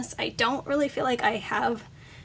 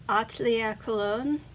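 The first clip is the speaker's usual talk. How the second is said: clumsy French name said with an American accent; stumbling through a French brand name in an American accent; foreign accent in french. Real, not acted. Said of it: "I'm sorry, my French is not good".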